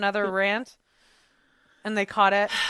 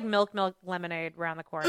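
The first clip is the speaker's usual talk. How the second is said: laughing rhyme; 3 semitones lower, 6 dB quieter than usual. Retold or imitated. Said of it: "He'll say, like".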